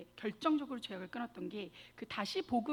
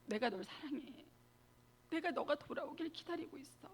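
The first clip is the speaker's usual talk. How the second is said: tender Jesus; 3 semitones higher, 6 dB quieter than usual. Retold or imitated. Jesus speaks tenderly in vision.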